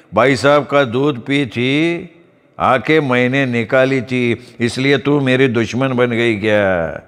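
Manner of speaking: put-on slow, drawn-out drunken rant; drunk outcry. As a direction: accuse the snake, drunk and shaken. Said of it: "तो ओरडला".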